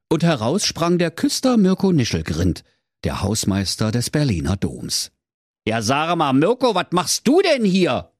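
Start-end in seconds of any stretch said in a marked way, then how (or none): 5.7-8.1 astonished. Acted. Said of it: "fragte der Werner ganz erstaunt".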